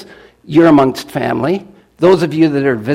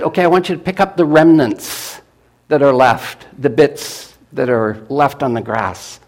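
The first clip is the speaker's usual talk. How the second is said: preacher telling a Bible story to the congregation; lively Bible story retelling; sermon storytelling. Acted. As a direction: tell it like a story from the pulpit.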